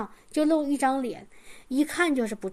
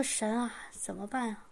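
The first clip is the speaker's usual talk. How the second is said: much softer, lower desperate prayer; whispered plea; 3 semitones lower, 10 dB quieter than usual. Retold or imitated. Praying to God during the quarrel, a near-whispered plea. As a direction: sigh it out to God.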